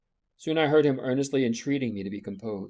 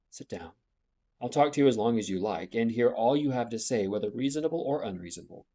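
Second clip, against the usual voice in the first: soothingly. Acted. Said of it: "said to him soothingly".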